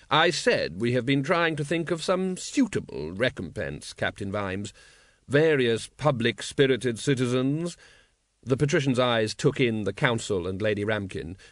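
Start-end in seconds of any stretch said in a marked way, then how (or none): 0.1-7.8 slow, drawn-out aristocratic ruler; suave patrician. Acted. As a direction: drawl it like a bored, polished tyrant. Patrician's voice in narration.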